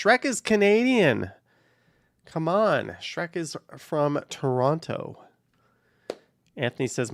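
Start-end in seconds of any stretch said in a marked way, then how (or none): 0.0-5.2 incredulous correction, voice raised; playful indignation. Real, not acted. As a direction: object as if outraged, pitched up. Protesting that Shrek is Scottish.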